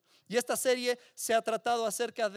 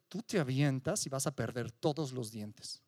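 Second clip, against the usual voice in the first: lower, taunting giant voice; menacing giant; 7 semitones lower than usual. Retold or imitated. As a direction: scare them off the jump. The giant threatens the listener. (voz del gigante, grave y burlona)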